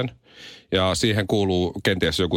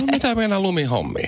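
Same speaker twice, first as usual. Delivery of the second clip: a light imitation of a bewildered dad, pitched high; lightly voiced confused parent; puzzled parent; 11 semitones higher than usual. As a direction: ask like a baffled father. Parent hearing child's song.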